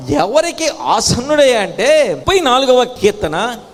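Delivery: ringing announcement of a scripture verse; emphatic preaching. Real, not acted. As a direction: call the verse out to the congregation.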